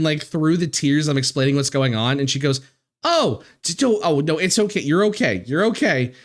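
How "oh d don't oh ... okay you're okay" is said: imitating a team lead's soothing fuss; hurried, repeated consoling; retold reassurance. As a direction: start on a high "oh", then settle into comfort. Team lead comforting her, retold.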